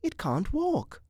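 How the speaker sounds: high, slow, pitying realisation; compassionate. A narrator's reading. Woman sees the locust is crippled, compassionate. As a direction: dwell on it with pity. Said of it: "catching her breath in compassion".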